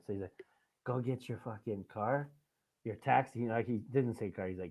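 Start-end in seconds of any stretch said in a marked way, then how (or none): 0.8-3.4 put-on Croatian accent. Retelling what a man said when he came up to him, heavy Croatian accent. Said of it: "he has a heavy Croatian accent".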